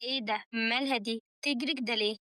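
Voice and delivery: low, soft, understated bewilderment; mildly baffled, under the breath; puzzled. A narrator's reading. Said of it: "مازن باستغراب".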